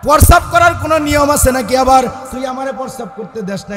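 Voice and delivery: loud, high angry scolding; angry father. Acted. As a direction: bark at the son like a furious father. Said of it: "রাগ হয়ে কয়". (রাগী বাবার জোরালো ধমক)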